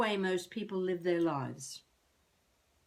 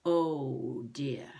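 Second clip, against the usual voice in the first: whispered oh dear; 6 semitones lower than usual. Real, not acted. Self-talk after picturing own death.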